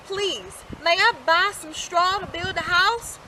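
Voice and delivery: a lightly changed little pig voice; little pig asking. A narrator's reading. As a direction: ask the farmer nicely. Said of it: "asked the little pig".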